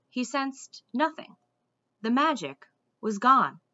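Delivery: steady, engaged storybook reading; story narration. A narrator's reading. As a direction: tell the tale to listeners. Reads a fantasy novel aloud.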